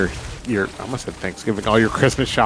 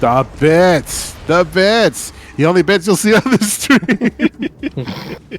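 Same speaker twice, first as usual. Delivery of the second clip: high, loud, drawn-out mock hype; hammed-up excitement; 9 semitones higher, 6 dB louder, much slower than usual. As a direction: ham it up, slow and loud. Hamming up thanks for bits.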